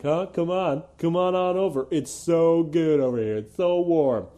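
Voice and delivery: a touch of cooing invitation; syrupy believer. Retold or imitated. Mocking believers beckoning him over, lightly syrupy. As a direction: coax sweetly like a cult recruiter. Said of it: "with these doughy eyes being like".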